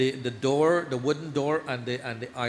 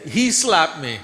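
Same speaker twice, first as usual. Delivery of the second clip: put-on child accusing; 3 semitones higher, 7 dB louder, slower than usual. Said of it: "He said".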